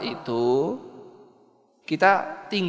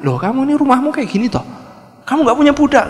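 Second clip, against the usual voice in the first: high, loud, fast scoffing; scornful busybody; 10 semitones higher, 7 dB louder, faster than usual. Acted. Visiting woman scoffing at the wife's poor home, high and loud. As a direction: sneer at the bare house.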